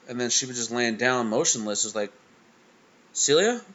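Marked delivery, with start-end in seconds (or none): 3.1-3.6 alarmed call. Retold or imitated. Finds dog lying motionless.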